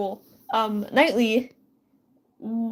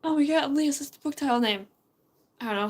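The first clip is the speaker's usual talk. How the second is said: ordinary delivery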